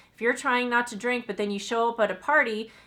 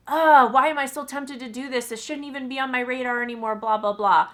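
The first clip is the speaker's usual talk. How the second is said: self-berating; 3 semitones higher, 5 dB louder than usual. Retold or imitated. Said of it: "instead of berating yourself as like".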